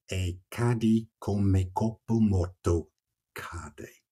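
slow, measured Italian verse reading; poetry recitation. Acted. Reciting Dante's closing lines to the listener, poetry recitation. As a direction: recite it slowly, letting the last word drop away.

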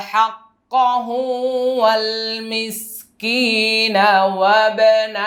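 slow melodic tilawat; Quran recitation. Shown as a demonstration. Teacher chants the assembled verse for the class. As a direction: draw out the vowels in a sung line.

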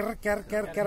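short repeated bird-call syllables; imitated myna call. Speaker showing listeners the myna's warning sound, imitated bird call. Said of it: "असा आवाज करते".

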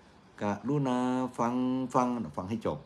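slow, pointed request to listeners; slow pleading. Shown as a demonstration. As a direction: spell it out slowly so they listen to the end. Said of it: "ก็ต้องฟังให้จบ".

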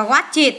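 "watch it" with the ending as its own syllable; es ending sounded. Shown as a demonstration. Teacher showing pupils es endings, extra syllable sounded out. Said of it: "thêm e sờ vô đọc là".

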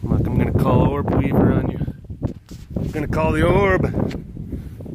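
lightly menacing play warning; mock threat. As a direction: threaten playfully, stretching the words. Play threat to unruly pests.

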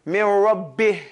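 "Min Rabbih" slow, ending on a breathy h; example of whispered ending. Shown as a demonstration. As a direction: recite "Min Rabbih" low, letting the final h breathe out. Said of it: "you give them example".

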